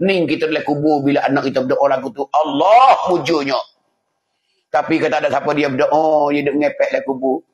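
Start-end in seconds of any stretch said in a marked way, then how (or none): 2.3-3.6 drawn-out, swelling exclamation; acted grateful relief. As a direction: exclaim as a relieved parent in the grave. Dead parent grateful for child's prayer. (seruan lega penuh syukur)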